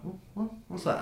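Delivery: high, soft little hoots; strange creature noises. Acted. Game master imitates strange noises from the carts, high soft hoots. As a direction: mimic odd cries from far off. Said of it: "you hear sort of strange".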